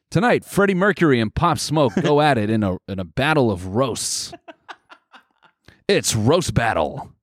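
lightly hammed-up event promo; mock show announcer. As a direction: announce a big fight night in jest. Second mock promo for roast.

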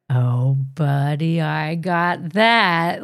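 gently, as if talking to the dog; tender words to dog. Retold or imitated. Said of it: "So I was like".

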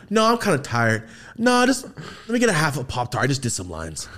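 mock-casual, pitch dropping at the end; imitated nonchalance. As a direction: brush off the offer like it's nothing. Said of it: "I just remember how nonchalant".

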